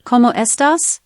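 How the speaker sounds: sample greeting spoken in Spanish; Spanish accent. Shown as a demonstration. Assistant giving the host accent samples, Spanish accent. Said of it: "Spanish accent".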